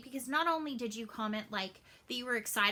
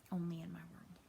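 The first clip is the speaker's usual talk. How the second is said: whispered with a sigh; a tired whispered aside; 4 semitones lower, 9 dB quieter than usual. Real, not acted. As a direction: breathe it out, worn out and amused. Exasperated aside after the story.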